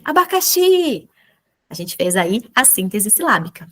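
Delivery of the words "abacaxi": Abacaxi said brightly high as the answer; blended word. Shown as a demonstration. Teacher revealing the blended word, higher. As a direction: reveal the whole word with lift. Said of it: "me dar a palavra inteira".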